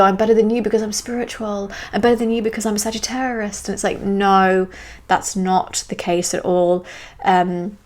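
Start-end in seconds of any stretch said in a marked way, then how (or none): 0.0-3.7 mock superior voice, pitched a little higher; imitating a self-righteous boaster, quick and higher; self-righteous spiritual ego. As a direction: brag like someone smugly holier-than-thou. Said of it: "Very self-righteous, very sort of spiritual ego".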